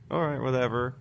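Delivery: dismissive dad. Retold or imitated. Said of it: "his dad handles it very".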